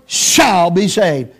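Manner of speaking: "shall" drawn out and set apart; stress on shall. Real, not acted. Preacher insists it's not maybe, not should, stress on "shall". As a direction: lean firmly on "shall". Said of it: "not maybe, not should".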